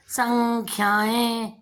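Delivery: संख्याएं said very slowly with a held nasal; slow demo. Shown as a demonstration. Teacher to children, spelling out संख्याएं slowly. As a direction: draw out संख्याएं syllable by syllable. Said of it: "ना की ध्वनि".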